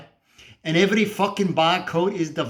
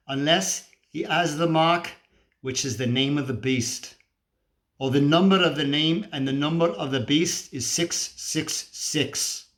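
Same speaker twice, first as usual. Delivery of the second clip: scripture recitation. Acted. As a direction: recite it like doom-laden prophecy.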